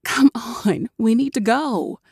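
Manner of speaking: hushed urgent whisper. A narrator's reading. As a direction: breathe it so no one hears. Hiding, urging friend away.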